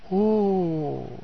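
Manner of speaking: soft, drawn-out imitated roar; feeble roar attempt. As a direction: let out a weak mock roar. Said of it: "اس نے نکالی۔".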